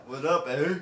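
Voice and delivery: lightly put-on Canadian accent; casual mock Canadian greeting; jokey Canadian accent. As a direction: toss off a Canadian "eh". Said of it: "I ain't speak Canadian".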